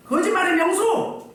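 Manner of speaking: slow, high-pitched accusation; acted rebuke. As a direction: call him out, drawing each phrase out. Acts out Moses rebuking Pharaoh.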